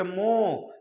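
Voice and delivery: मोह drawn out on मो; stress on मो. Shown as a demonstration. Teacher repeating the stressed part of मोहन, drawn-out stress. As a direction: stretch the opening मो slowly. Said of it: "तो म पर ज्यादा लग रहा".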